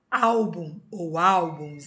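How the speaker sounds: álbum ou álbuns said slowly, stress on ál; slow example words. Shown as a demonstration. Teacher reading example words to the class, slowly. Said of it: "penúltima".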